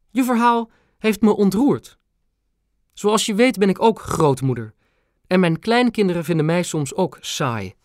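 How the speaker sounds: high, regal grandmother; the queen confiding she's a grandma too. A narrator's reading. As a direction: speak as a touched old queen. Queen voiced by narrator.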